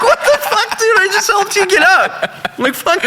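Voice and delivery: squeaky-high retold indignation; exasperated outrage. Bouncer insulted by the woman he just helped up, exasperated. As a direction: protest with the voice pitched right up. Retells outrage at ungrateful lady.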